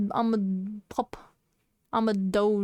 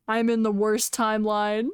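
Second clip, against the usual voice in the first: mock crying. Mock crying over timeline.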